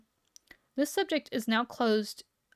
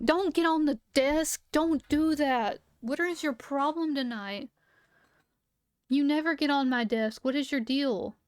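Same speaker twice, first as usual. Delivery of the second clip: firm, exasperated pet scolding; scolding the dog; 4 semitones higher than usual. Real, not acted. Telling the dog off for jumping on the desk, exasperated.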